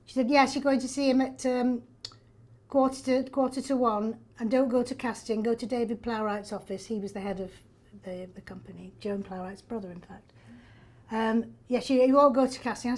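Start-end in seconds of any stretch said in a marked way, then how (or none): 0.3-6.9 lightly imitated northern English agent; northern English accent. Agent briefs actress on the audition, northern English accent. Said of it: "I had a northern agent". 11.7-12.9 louder northern English agent; northern English accent. Retold or imitated. Agent steers actress away from casting, northern English accent. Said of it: "I had a northern agent".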